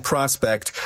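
"prospect" said PRAH-spect, short open O; short-O pronunciation. Real, not acted. Guest keeping his own usage, "prospect" as PRAH-spect. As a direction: say "prospect" with the vowel of "prod". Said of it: "just speaking the way I speak".

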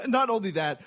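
breathy high laugh into words; cracking up at the bit. Real, not acted. Laughing at own impression.

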